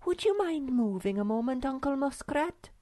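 put-on high-pitched girlish creature voice; pointed request. A narrator's reading. Snork Maiden asks the muskrat to move, pointed. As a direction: ask high and pointedly polite. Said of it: "looked sharply at the muskrat".

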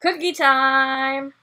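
slow, excited call; excited announcement. Real, not acted. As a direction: announce it with glee. Announcing next activity.

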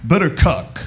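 stand-up character impression with jittery interjections; Rodney Dangerfield. Comic greets Austin in his favorite character, impression. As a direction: toss out one-liners as a borrowed comic persona. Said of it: "This is gay Rodney Dangerfield".

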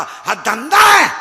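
slow shout. Real, not acted. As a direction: thunder it out word by word. Preacher's climax line to crowd.

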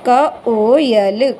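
क, ओ, यल held apart, slowly; slow sounding out. Shown as a demonstration. Teacher to child, sounding out कोयल slowly. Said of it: "ऐसे ही".

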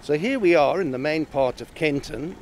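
talking through a face mask; muffled voice behind a mask. Real, not acted. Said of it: "if I sound a bit muffled, it's because I've got my mask on".

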